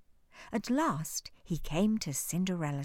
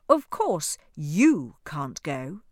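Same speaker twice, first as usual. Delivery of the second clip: cold, slow stepmother sneer; wicked stepmother; 2 semitones lower, 9 dB louder, slower than usual. Acted. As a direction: sneer it, drawn out and cruel. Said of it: "said the stepmother".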